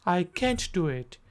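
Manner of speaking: can't as kent, American accent. Shown as a demonstration. Teacher contrasting American accent. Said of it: "American accent".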